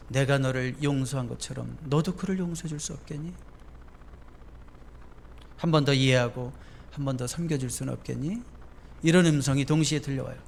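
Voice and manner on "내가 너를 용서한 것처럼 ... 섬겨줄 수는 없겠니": the Lord's voice. Retold or imitated. Preacher voicing the Lord asking a believer to forgive, gentle. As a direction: plead tenderly, like a loving father. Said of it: "주님의 음성이 동시에 들려옵니다".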